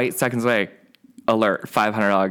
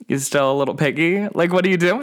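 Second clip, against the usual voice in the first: mock taunt; 7 semitones higher than usual. To the gift-card man on Snapchat, playful mocking taunt. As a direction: taunt him like a pet pig. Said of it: "should I reach out and be like".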